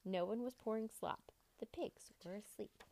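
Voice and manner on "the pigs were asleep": narrated in a hushed whisper. A narrator's reading. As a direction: whisper so the pigs stay asleep. Narrator whispers sleeping pigs.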